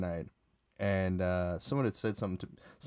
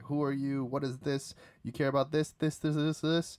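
higher, mocking challenge rising each time; taunting; 6 semitones higher than usual. Drunk teller mimics himself heckling strangers, high mock taunt. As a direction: jeer at strangers, climbing higher. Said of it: "start talking shit to everybody".

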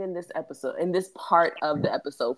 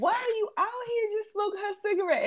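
Flav impression; 4 dB quieter than usual. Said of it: "and he's like".

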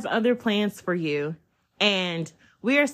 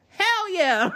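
overjoyed; 10 semitones higher than usual. Retold or imitated. Hearing the pay of her offer.

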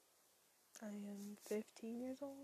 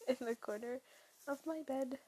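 blanket over head; 4 dB louder than usual. Real, not acted. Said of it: "blanket over the head".

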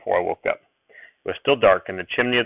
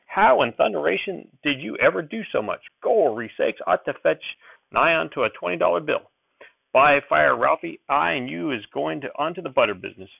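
put-on high, lively old-timer; excited grandpa making plans; old prospector; 5 semitones higher than usual.

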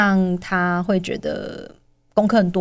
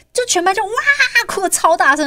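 high, louder, mock wail; mock wailing class; 12 semitones higher, 3 dB louder than usual. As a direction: ham up a whole class crying. Mother acts a class wailing. (夸张地模仿全班大哭)

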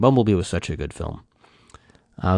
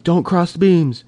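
a lightly voiced movie hero, higher and put-on; movie quote voice; 10 semitones higher, 4 dB louder than usual. Fan quoting the film line to friends, higher put-on voice. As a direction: deliver the famous line like the film character.

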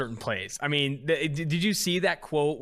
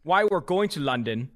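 put-on wavering London accent; 4 semitones higher, 3 dB louder than usual. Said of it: "the accent keeps changing".

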